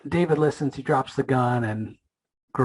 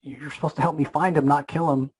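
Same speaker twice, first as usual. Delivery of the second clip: higher-pitched mock yell, not full volume; retold yell; 5 semitones higher than usual. Tremor freaks out at Spawn over his brother, mild mock yell. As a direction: imitate someone freaking out, pitch jumping up. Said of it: "he yells at Spawn".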